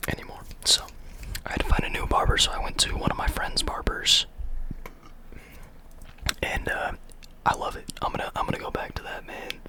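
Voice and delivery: soft ASMR whisper. Real, not acted. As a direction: whisper close to the mic. Whispers throughout.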